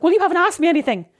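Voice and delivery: high, worked-up reenactment; high-pitched mock protest; retold blurted reply. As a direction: blurt it back, pitched right up.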